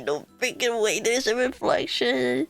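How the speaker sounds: low, shaken, dread creeping in; horrified cute streamer; scared. Real, not acted. Shown the scary reflection.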